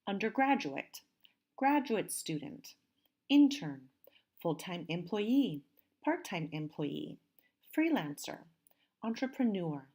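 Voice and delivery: clearly enunciated word list with falling endings; careful model pronunciation. Shown as a demonstration. Teacher models words for students to hear, careful pronunciation. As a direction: read each term out as a pronunciation model. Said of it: "please listen as I pronounce these".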